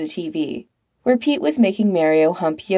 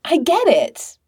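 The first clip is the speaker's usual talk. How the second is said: epiphany; 9 semitones higher than usual. Acted. Epiphany descending upon him.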